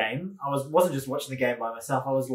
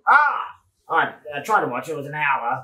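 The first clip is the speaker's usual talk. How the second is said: dad impression; 4 dB louder than usual. Listener's dad on trying to watch, lightly imitated. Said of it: "And then your dad said".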